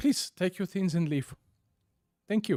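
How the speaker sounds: smiling while talking. Game master voicing a woman who smiles at the players: smiling while talking. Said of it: "She smiles at you and she's like".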